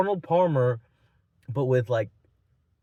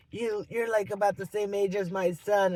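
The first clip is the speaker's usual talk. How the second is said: higher-pitched imitation of an annoyed woman; mock mad woman; 5 semitones higher than usual. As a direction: imitate her getting huffy, pitched up. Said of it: "started kinda getting all mad".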